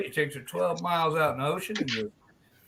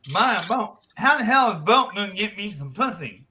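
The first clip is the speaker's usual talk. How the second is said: tag harelip friend; 3 semitones higher than usual. Acted. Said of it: "a friend who's a hair lip".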